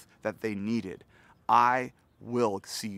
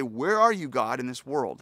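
calling out to God; 5 dB louder than usual. Retold or imitated. Seeker calling out to God across the world, loud and searching. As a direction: cry out as if looking for someone.

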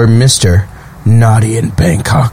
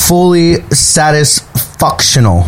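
slow mocking read; 2 semitones higher, slower than usual. Mocking the ad's wording.

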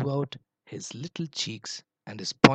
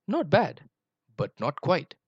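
purring tiger; 5 semitones higher, 3 dB louder than usual. Acted. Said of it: "purred a low voice".

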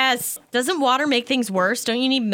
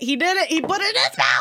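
high laughing shout; excited shriek; 9 semitones higher, faster than usual. Real, not acted. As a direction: shriek with delight and horror. Friend eats super hot sauce.

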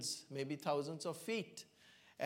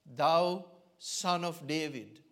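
louder, slowed call: thou son of David; crying out; 6 dB louder, slower than usual. Acted. Preacher voicing the blind man crying out to Jesus, loud and slow. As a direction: call out over the crowd. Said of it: "he cries out at the top of his voice".

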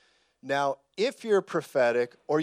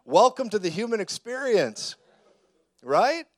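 fired-up preaching voice, louder; 6 semitones higher, 8 dB louder than usual. Real, not acted. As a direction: preach it hard and loud. Preacher heats up.

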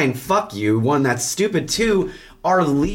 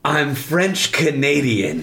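laughing mock one-liner; slower than usual. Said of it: "what does he say".

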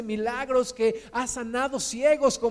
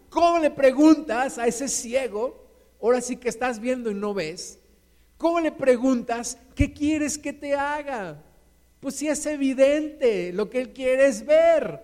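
incredulous objection; 3 semitones higher than usual. Acted. Acts out objection to Jesus' question.

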